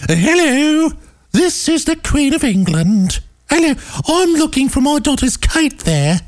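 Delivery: very high, hammed-up British dowager; badly faked royal falsetto; the Queen. Host showing how he'd prank call, silly high voice. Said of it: "I could have called and done that voice".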